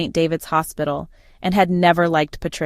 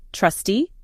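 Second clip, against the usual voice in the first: puzzled, questioning lilt; feigned confusion; 3 semitones higher than usual. Pretend. Daughter-in-law plays dumb about the trustee, feigning confusion. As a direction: act puzzled, lifting the end. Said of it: "I acted confused".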